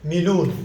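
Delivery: مليون said as "mi-LOON"; Pashto pronunciation. Shown as a demonstration. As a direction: say مليون as "milun", no y before the long u. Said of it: "أما نحن نلفظ".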